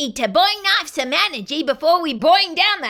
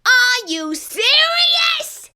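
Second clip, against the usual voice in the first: slow, higher disbelief; incredulous; 6 semitones higher, much slower than usual. Acted. Character annoyed the kid touched his book, incredulous. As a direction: stretch it out in disbelief.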